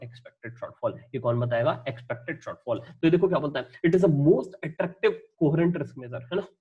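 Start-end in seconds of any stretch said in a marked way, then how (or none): 3.9-6.2 reading the book line word by word, very slowly; slow textbook dictation; slow reading aloud. Shown as a demonstration.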